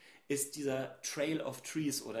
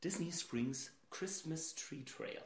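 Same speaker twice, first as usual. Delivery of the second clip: slow careful naming; 7 dB quieter, slower than usual. Shown as a demonstration. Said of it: "Halleluja, ist das kompliziert".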